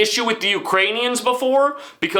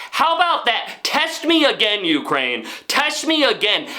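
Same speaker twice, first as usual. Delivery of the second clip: mock taunt; 5 semitones higher than usual. Mock-angry rant at Ukraine.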